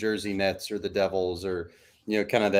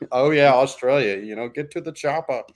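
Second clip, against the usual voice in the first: a light hint of an Austrian Schwarzenegger accent; 3 semitones higher than usual. Pitching a movie joke to his cohost, light Austrian Schwarzenegger accent. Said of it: "an Arnold Schwarzenegger accent".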